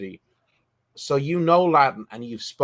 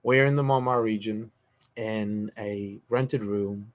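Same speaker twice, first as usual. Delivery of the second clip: game master narration. A narrator's reading.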